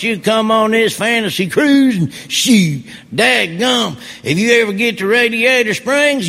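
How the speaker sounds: big friendly ship-wide announcement as Mater. Acted. Mater greeting cruise guests over the ship's microphone, hearty and folksy. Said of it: "This is what it sounded like".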